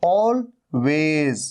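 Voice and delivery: always with an o start and z ending; teacher modelling always; correct always. Shown as a demonstration. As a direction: open with o, end on z. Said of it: "ओ का sound है".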